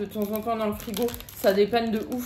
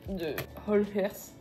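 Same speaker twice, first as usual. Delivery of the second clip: English accent; 2 semitones lower, 4 dB quieter than usual. Real, not acted. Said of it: "avec mon super accent".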